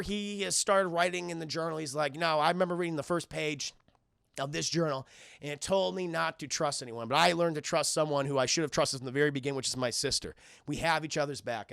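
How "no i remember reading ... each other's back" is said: lower, softened retold reflection; reflective sincerity. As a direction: settle down into a sincere journal voice. Dipper's reflective journal entry.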